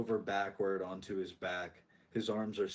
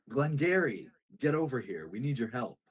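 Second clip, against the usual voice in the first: lightly acted summons to a bystander; calling out; 3 semitones higher, 3 dB louder than usual. Carver to a bystander who hasn't helped, calling out. Character calls a bystander over.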